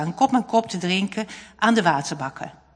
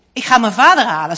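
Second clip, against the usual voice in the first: fast, louder, eager; eager boy; 2 semitones higher, 10 dB louder, faster than usual. A narrator's reading. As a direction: rush it out, decided. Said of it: "zegt hij". (jongen vastberaden, snel en luider)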